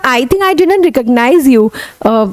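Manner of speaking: corrected line, still slow; slow corrected demo. Shown as a demonstration. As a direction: repeat it slowly and correctly. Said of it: "मतलब".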